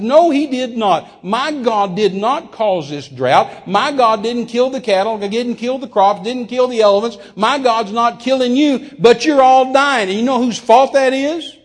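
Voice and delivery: high, loud, slow denunciation; forceful rebuttal. Retold or imitated. Guest defending his God to preachers, forceful angry rebuttal. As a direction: hammer each denial at them.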